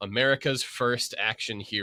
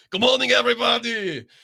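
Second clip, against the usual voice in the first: put-on very loud, booming, high-pitched Austrian accent; 14 semitones higher, 8 dB louder than usual. Retell Arnold getting out of the golf cart twenty minutes late, as a very loud Arnold impression, Austrian voice. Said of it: "very loudly, in his beautiful Austrian voice".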